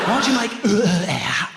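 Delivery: put-on slow, high and loud, "out" stretched over three syllables in an Essex accent; drawn-out Essex "out". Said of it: "Three syllable Essex out".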